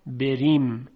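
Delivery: بریم with a thin, light r. Shown as a demonstration. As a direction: say بریم alone, with a delicate r.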